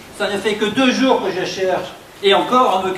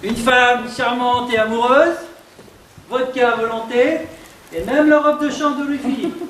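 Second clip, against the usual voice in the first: playful rising delivery; 3 semitones higher than usual. Shown as a demonstration. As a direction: toy with the lines, climbing up. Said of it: "Amuse-toi avec le personnage".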